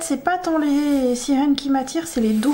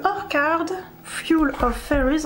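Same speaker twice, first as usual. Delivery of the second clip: "hors card, Fuel of Fairies" spelled out slowly in French-accented English; careful, halting English title with a French accent; 4 semitones higher, slower than usual. Real, not acted. Vlogger naming an English colouring book, slow French-accented English. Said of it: "encore une fois désolée pour mon anglais".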